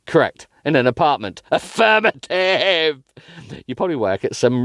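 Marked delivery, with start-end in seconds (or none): 1.5-3.0 clipped military affirmative. Acted. Voicing him robotically.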